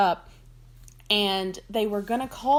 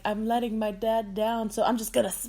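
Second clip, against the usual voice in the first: emo moping. Retold or imitated. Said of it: "being emo".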